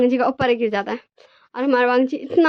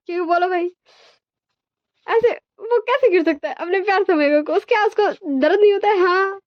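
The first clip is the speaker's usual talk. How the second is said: much higher, put-on voice protesting; mock whiny complaint; 9 semitones higher than usual. Narrator voicing Wang ji's complaint, much higher mock whine. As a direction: play the squashed one whining about being fallen on.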